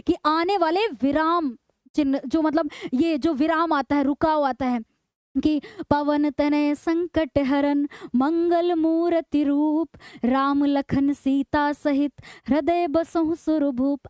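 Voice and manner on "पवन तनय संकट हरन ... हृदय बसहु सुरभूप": measured couplet recitation with deliberate mid-line breaks; slow verse, stretched words, clear halts between phrases; verse with pauses. Shown as a demonstration. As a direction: recite slowly, pausing at each yati. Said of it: "जो ma'am बीच में रुकी ना, ये यति है".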